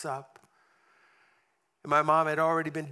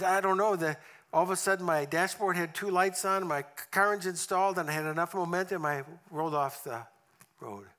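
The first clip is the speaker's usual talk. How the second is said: higher, louder and rushed; flustered; 4 semitones higher, 4 dB louder than usual. Retold or imitated. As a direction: tumble it out, rattled. Mom's flustered retelling.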